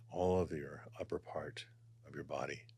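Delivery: breathy meditation whisper. Acted. Guiding the body scan, whispering. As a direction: let the words fall to a whisper.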